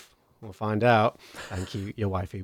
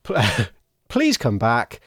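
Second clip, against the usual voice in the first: put-on slurring drunk pleading; town drunk; slower than usual. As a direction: slur it like a drunk begging. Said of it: "now he's slurring his words".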